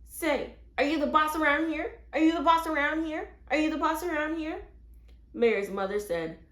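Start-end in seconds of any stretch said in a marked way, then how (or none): 0.0-4.7 high, loud parrot squawk; yelling parrot. A narrator's reading. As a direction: screech it like a bossy bird. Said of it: "blinking and yelling".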